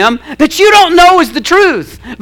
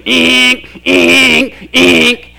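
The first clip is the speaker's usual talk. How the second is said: mock alarm; much slower than usual. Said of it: "like a defcon three alert goes off".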